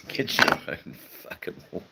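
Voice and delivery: breathy whisper through laughter; laughing whisper. Real, not acted. Rereading a viewer's joke, whispering through laughter. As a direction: giggle the line under your breath.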